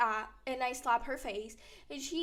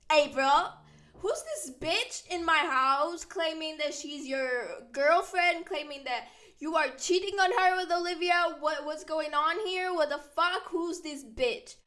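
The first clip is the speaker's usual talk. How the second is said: loud confused outrage; 3 semitones higher, 4 dB louder than usual. Retold or imitated. Chloe confused, angry at intruder.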